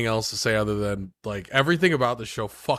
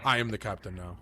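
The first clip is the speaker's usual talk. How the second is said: low, soft menacing pirate; pirate impression; 4 semitones lower, 7 dB quieter, faster than usual. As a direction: quietly claim the ship. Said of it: "that one Tom Hanks movie".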